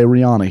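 a singer's name as ree-AH-nuh; common mispronunciation. Shown as a demonstration. Host granting what we wanna say here, the name said ree-AH-nuh. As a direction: open AH in the middle of the name. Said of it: "I know we wanna say".

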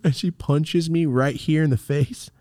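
ordinary delivery

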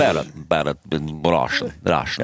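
mock Russian accent; lightly put-on Russian accent. Shown as a demonstration. Co-host showing how Russian should sound, mock Russian accent. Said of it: "Russian's more like you".

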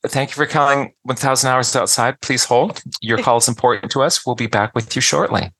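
recorded hold message; phone menu voice. Pretend. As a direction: read it like an automated phone line. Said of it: "pretend like we are taking calls for customer service".

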